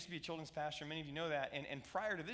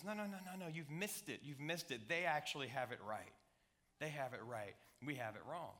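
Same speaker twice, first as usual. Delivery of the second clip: soft, lower, patient no-no-no; gentle correction; 3 semitones lower, 4 dB quieter than usual. Acted. Jesus gently telling the disciples they missed it, softly. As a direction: set them right kindly and quietly.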